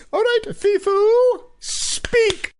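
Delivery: high, singsong command to a dog. Acted. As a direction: coax the little dog into speaking. Commanding her dog to speak.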